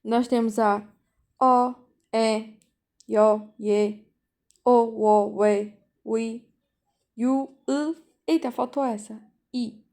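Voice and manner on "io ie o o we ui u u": io, ie, o, o, we, ui, u, u each sounded out slowly and separately for the class; teacher demonstrating Korean vowel sounds to students, pronouncing each clearly; Korean vowels spoken one by one. Shown as a demonstration. Korean vowels sounded out clearly. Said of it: "E nas vogais".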